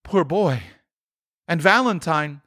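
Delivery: high, excited reminiscing; ecstatic Scrooge. A narrator's reading. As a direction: pour out delighted memories in a swooping high voice. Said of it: "Scrooge exclaimed in ecstasy".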